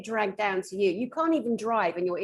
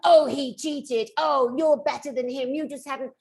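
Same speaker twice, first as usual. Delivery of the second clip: mock doting parent; 2 semitones higher than usual. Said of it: "the helicopter parents today".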